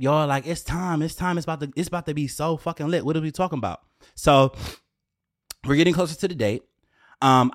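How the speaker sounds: normal talking voice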